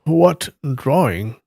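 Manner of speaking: mildly acted curiosity; curious. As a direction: ask slowly, wanting to know. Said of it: "Yi Deng asked curiously".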